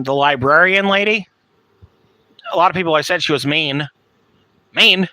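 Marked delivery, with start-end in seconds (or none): 4.7-5.1 higher, louder incredulous echo. Real, not acted. Doubting what people said of the librarian, incredulous. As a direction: echo the word in disbelief. Disbelief others called librarian mean.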